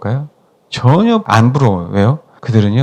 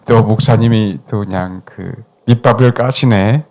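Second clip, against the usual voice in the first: laughing mock complaint; 5 semitones lower than usual. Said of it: "mimics congregation's complaint".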